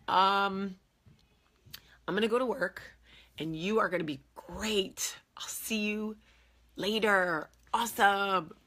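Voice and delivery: lightly voiced careless husband, airy; breezy husband. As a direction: toss it off as the oblivious husband. Husband voiced leaving for work.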